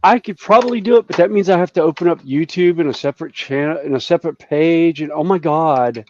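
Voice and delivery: put-on fast, bubbly eighties Valley girl; lightly voiced Valley girl. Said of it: "That was my impression of an eighties Valley girl".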